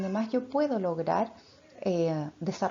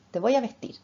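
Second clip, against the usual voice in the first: put-on bright, higher, louder baby talk; 4 semitones higher, 4 dB louder than usual. Shown as a demonstration. Mother dresses her baby and announces grandma's arrival, lifted baby talk. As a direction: narrate the moment to the baby, lifted and cheerful. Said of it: "Yo voy hablando de lo que está pasando ahora".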